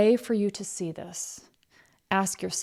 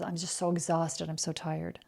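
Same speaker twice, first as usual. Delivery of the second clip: soft, drooping "I'm just so exhausted"; mock weary sigh; 2 semitones lower, 8 dB quieter than usual. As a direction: mimic a drained complainer, softly.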